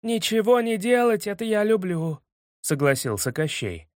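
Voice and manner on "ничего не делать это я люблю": smug villain penguin. A narrator's reading. Koschei voice.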